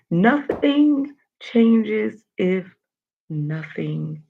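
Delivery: very slow start fading to a whisper; slow fading quote. Shown as a demonstration. Host closing with the quote of the day, slow fade to whisper. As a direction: stretch it out then let it fade to a whisper. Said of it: "The quote of the day".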